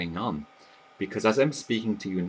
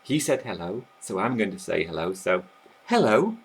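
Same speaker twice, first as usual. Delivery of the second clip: mock deliberate thinking. Shown as a demonstration. Teacher mimics a learner reasoning out a reply, deliberate. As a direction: act out an overthinking learner. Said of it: "You're not going to be thinking".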